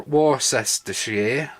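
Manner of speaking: "Worcestershire" drawn out slowly as wor-ses-ter-shire; wrong pronunciation. Shown as a demonstration. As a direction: stretch every syllable of "Worcestershire" the wrong way. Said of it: "myths about how you pronounce it".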